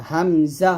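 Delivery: "হামজা" from the start of the throat; normal, unpressed. Shown as a demonstration. Teacher pairing two letters, unpressed "হামজা". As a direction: say "হামজা" without squeezing. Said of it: "উচ্চারণ করবো নর্মালভাবে".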